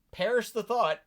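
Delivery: hammed-up indignant; mock horror. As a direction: gasp it out in fake outrage. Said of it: "there's so much sarcasm".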